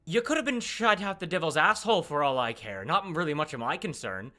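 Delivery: offhand friendly official; Phoebe. Acted.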